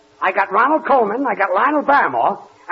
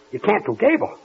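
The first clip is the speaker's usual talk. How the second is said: alarmed disbelief; 2 semitones higher than usual. Acted. Boss repeating it to the mimic, alarmed disbelief. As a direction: ask it with rising alarm. Asks again, more alarmed.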